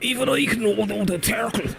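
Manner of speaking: imitating a thick Kerry Irish accent; mock thick Kerry Irish accent. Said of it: "really thick, Kerry Irish accents".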